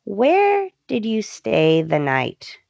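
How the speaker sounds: slow, measured acted-out question; dawning suspicion. Wife suddenly catches on and questions husband, suspicious. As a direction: let the realization land on "where". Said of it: "clicks in her brain".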